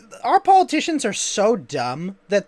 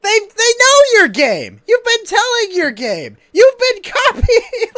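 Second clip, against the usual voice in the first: mock rant; 9 semitones higher, 6 dB louder, slower than usual. Ranting at politicians, voiced retort.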